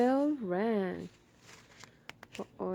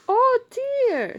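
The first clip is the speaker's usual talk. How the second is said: dismayed Ma; 11 dB louder than usual. Acted. Ma dismayed at doorbell.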